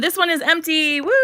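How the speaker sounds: playful celebration. Real, not acted. Showing viewers an empty drawer, playful celebration.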